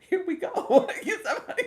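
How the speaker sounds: loud, high hammed-up cheer; mock excited. Retelling her reaction to the battle starting, loud and high. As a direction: sell the battle start big. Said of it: "I was like".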